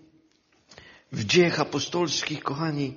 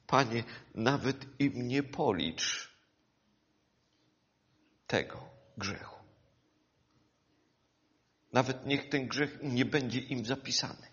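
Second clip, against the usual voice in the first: soft, low, intimate prayer; quiet tender plea; hushed prayer; 7 semitones lower, 8 dB quieter than usual. Acted. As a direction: pray it almost under the breath. Stephen's prayer quoted softly.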